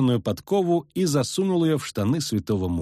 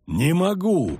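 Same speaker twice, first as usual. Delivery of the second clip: groaning; 6 semitones higher, slower than usual. Acted. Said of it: "простонал".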